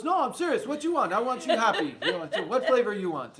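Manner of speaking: imitating an Italian shopkeeper, high and insistent; Italian accent, insisting. Ice cream man pressing a customer to choose, insistent Italian accent. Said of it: "he's got the Italian accent".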